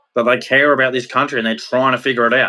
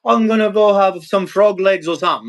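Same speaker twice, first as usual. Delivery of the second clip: mocking snob voice; 5 semitones higher than usual. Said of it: "They probably go".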